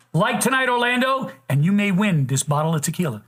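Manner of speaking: upbeat announcer pitch for the tequila giveaway; promo read. Acted. Podcast host plugging the subscriber giveaway in an upbeat ad-read voice. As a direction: sell it like a sponsor spot.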